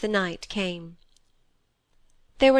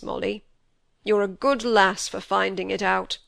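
put-on old Yorkshire squire, full of grief; heavy-hearted old man's lament; grieving old squire. A narrator's reading. Squire grieving over grandson.

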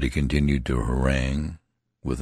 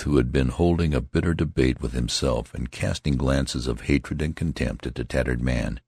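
usual speaking voice

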